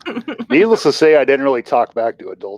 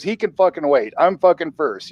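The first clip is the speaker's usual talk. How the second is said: higher-pitched retold indignation; imitating indignant dad; 7 semitones higher than usual. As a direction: assert your place in line, acting out Dad. Retold dad insisting he is first.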